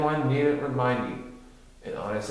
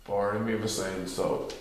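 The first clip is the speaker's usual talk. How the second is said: gloomy Eeyore; 4 semitones lower than usual. A narrator's reading. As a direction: drag it out like a glum donkey.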